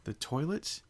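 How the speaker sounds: hazarding a guess. Acted. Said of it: "Twilight hazarded".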